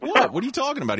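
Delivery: put-on a shocked twelve-year-old who can't believe it; stunned kid.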